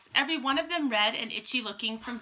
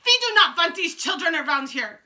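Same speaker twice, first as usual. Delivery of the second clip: ranting witch; 7 semitones higher, 9 dB louder than usual. A narrator's reading.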